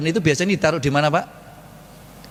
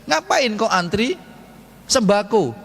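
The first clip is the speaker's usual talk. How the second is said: raised, questioning voice of a listener; playfully voicing a doubting congregant; mock objector; 8 semitones higher than usual. Preacher voices a doubter asking Utsman, higher and teasing.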